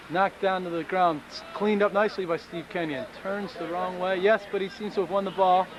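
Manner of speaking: lively sports commentator voice; play-by-play commentary. Pretend. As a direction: call the match like live TV. Mock rugby play-by-play.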